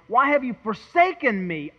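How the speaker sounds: "forsaken" lifted high in the middle of the question; stress on FORSAKEN. Shown as a demonstration. Preacher trying a third accent on Christ's cry, stress on "forsaken". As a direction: punch the word "forsaken". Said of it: "where to put the accent".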